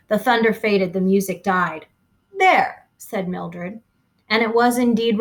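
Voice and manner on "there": a sudden bright cry of There; high triumphant There. Acted. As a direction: announce it like a triumph. Mildred after the noise.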